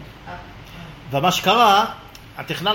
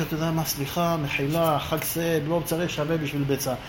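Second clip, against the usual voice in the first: שחזור התנצלות, נמוך וחלש; לבקש סליחה בשקט ובנמיכות; התנצלות מרגיעה; 4 semitones lower, 6 dB quieter than usual. Retold or imitated. מרגיע את העניינים בהתנצלות. (פיוס שקט בסוף המריבה)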